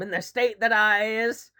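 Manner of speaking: lightly voiced Southern rube; a hint of a put-on Southern twang; mock Southern accent. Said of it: "uneducated person from the South".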